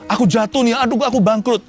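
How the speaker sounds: hammed-up fearful complaint; mock panic. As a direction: whine like someone who just lost everything. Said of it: "Jangan pernah ada yang takut".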